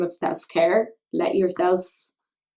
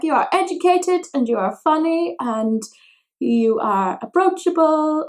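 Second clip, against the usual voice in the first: higher, louder listing praise; friend's voice; 8 semitones higher, 5 dB louder than usual. Retold or imitated. Imitating her friend's praise, higher earnest voice. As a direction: list her virtues earnestly. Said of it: "She was like".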